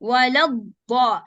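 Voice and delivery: Walad da slowly joined; slow recitation. Shown as a demonstration. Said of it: "join this lam with a dad".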